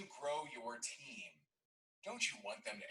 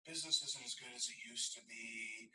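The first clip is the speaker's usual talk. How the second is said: deflated admission. Retold or imitated. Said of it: "there was a sigh".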